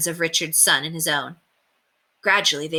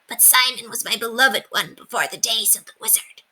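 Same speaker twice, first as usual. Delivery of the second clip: higher whispered memory of lost love; whispered confession; 5 semitones higher than usual. A narrator's reading. Calendar confides her lost love to William in a whisper. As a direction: breathe it out like a painful secret.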